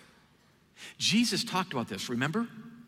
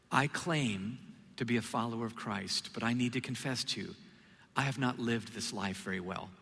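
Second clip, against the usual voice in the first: humble confession; 3 semitones lower than usual. Retold or imitated. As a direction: confess gently, like you mean it. Retold heartfelt confession to partier.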